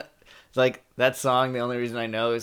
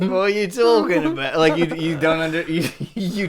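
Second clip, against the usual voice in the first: higher-pitched put-on Aussie; mock Australian accent; 4 semitones higher, 3 dB louder than usual. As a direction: echo the bit in hammed-up Australian. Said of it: "you'd be like".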